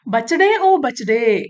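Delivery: a light sing-out to get the calf's attention; storyteller's lightly acted call. Old woman calls to the calf.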